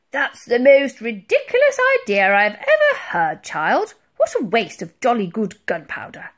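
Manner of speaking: loud, blustering scolding; indignant admiral. A narrator's reading. Admiral scolds the child over her idea, indignant.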